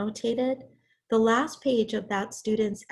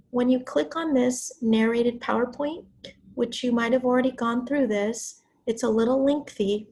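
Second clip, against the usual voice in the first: raspy from talking too long; hoarse voice. Real, not acted. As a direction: voice nearly gone. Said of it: "This is partly why my voice is gone".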